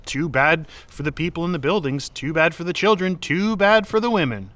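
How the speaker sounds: mock shrug, ramping up the scorn to a peak; building sarcasm. Mocking the half-mast rule, building sarcastic outrage.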